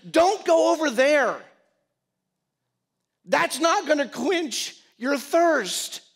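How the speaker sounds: loud, high-pitched impassioned plea; pleading yell. Acted. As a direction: cry out at full voice, high and urgent. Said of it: "yelling at the top of his lungs".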